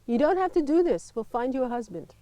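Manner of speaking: lightly voiced friend's mother, a touch urgent; a hint of a worried mother pleading; quoting friend's mother. Friend's mother on the phone, lightly voiced pleading. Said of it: "my friend's mother telephoned and she said".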